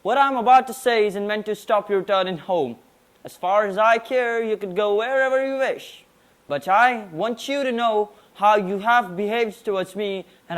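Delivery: formal declamation; prim precise elocution. Acted. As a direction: deliver it like a stage oration. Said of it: "present a declamation on Alexander the Great".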